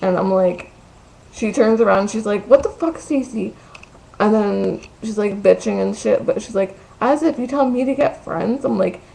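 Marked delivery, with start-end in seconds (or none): 2.5-3.5 high-pitched whiny complaint; whiny friend. Retold or imitated. Retelling the friend turning round on her, mock whiny. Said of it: "in that fucking whiny voice". 7.0-8.6 mock whine, pitched up; whiny friend. Friend bitching back about getting friends, imitated whine. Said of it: "in that fucking whiny voice".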